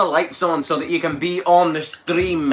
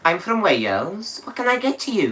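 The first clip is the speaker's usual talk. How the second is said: put-on Welsh accent; 3 semitones higher than usual. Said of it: "trying to do a Welsh accent, you just gotta seem confused".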